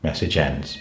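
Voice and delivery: robotic monotone speech; old speech synthesizer. Pretend. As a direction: speak like an old computer voice. Ron Dennis as robotic speaker.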